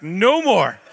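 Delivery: half-laughing, beg them to stop; laughing plea. Retold or imitated. Stomach-sick speaker begging the praying crowd, loud laughing plea.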